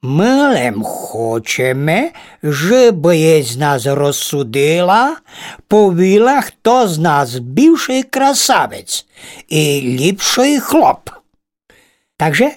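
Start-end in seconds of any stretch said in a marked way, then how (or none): 0.0-11.1 slow, drawn-out vain spider; a preening spider showing off; slow boastful spider. Acted. Spider asks the ladybird to judge, slow and vain.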